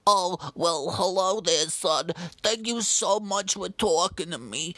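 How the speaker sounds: put-on a lonely elderly woman warmly greeting son; Martha. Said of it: "my name is Martha".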